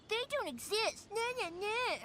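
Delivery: sing-song taunting nah nah nah; mock the know-it-all who ruins the fun; teasing, childish put-down voice; mocking naysayer. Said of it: "started telling me to stop being so stupid".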